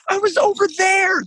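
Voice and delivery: very high, shouted squeaky answer; telling his friends where he had slept, very high squeaky shout; sheepish squeak. Retold or imitated. High silly voice, clueless.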